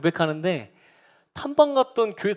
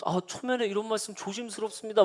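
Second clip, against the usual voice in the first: cautious aside; 4 semitones higher, 5 dB quieter than usual. Retold or imitated. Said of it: "막 이러시더니".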